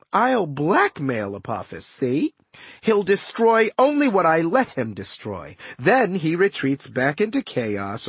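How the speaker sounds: lightly voiced scheming villain; smug trickster villain. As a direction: lay out the scheme with casual smugness. Villain Setna explains his scheme.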